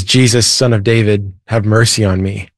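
lightly voiced blind man's plea; retold cry for mercy. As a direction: call out to Jesus without truly shouting. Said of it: "and he screams out loud".

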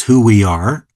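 ordinary talk, nothing marked

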